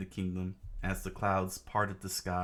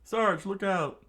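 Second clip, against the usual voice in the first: high, loud, drawn-out cry; acted battlefield yell; shouted warning; 13 semitones higher, 5 dB louder, slower than usual. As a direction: call out a warning in falsetto.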